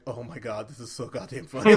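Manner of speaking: builds to a loud, quick burst; rising into a loud, fast rave; excited. Retold or imitated. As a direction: blurt it out, delighted. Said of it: "I was just like".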